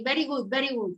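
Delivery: put-on "very good" with a light Spanish accent, v said like b. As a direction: mimic a Spanish teacher saying "very good" in a Spanish accent. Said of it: "with that accent".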